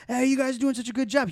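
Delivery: high, hearty big-shot greeting, put on. Regular praising the young food runners, hearty imitation.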